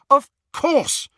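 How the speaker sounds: high excited exclamation; excited cry. A narrator's reading. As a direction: burst out with sudden realization. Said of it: "cried Hermione".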